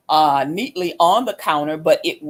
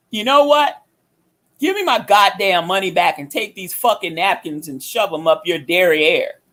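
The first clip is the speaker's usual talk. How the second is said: retold pissed-off demand. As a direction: replay being fed up with the staff. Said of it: "So I'm really pissed".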